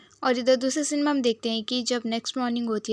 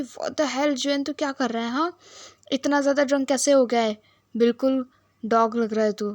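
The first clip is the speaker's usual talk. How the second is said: scolding; 2 semitones higher than usual. Retold or imitated. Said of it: "बहुत डांटने लगता है सॉन".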